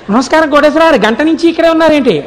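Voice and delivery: overly meek put-on greeting; dripping false humility. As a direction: imitate her sugary politeness. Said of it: "చాలా వినయం కారిపోతున్నట్టు".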